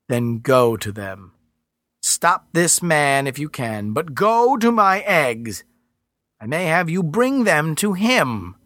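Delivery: slow, otherworldly Earth Mother; slow angry goddess. Acted. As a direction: hold back fury, slowly.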